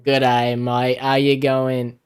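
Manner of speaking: tossing off a bad Australian accent for fun; atrocious Australian accent. Greeting an Australian viewer back in a hammed-up Australian accent. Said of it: "my atrocious, uh, Australian accent".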